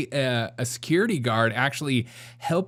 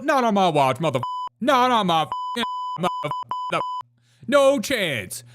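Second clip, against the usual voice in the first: high, hammed-up tough-lady voice; mocking impression of a strict jail boss; mock sheriff; 7 semitones higher than usual. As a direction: mimic her scolding the inmates, pitched way up. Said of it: "she's like".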